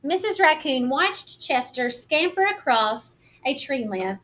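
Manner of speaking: gentle, lively picture-book narration; reading to children. A narrator's reading. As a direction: read it like storytime for little ones.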